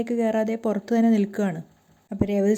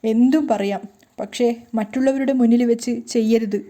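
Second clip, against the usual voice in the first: crying plea; 4 dB louder than usual. Acted. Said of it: "കരഞ്ഞുകൊണ്ട് തന്നെ രേവതി പറയാണ്".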